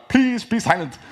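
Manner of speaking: mock plea for quiet. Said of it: "And people are afterward".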